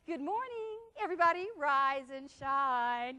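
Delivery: sing-song, slow wake-up call; a mother calling her kids downstairs sweetly. Retold or imitated. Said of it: "Your mother's calling you".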